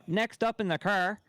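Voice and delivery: put-on East Coast Canadian accent. Show host announcing, East Coast Canadian accent. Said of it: "has a East Coast accent where he'll say".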